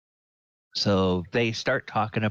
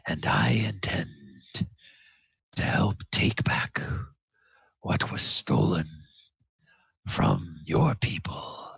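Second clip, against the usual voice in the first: solemn dwarf vow; 3 semitones lower than usual. Acted. GM voices dwarf Barak.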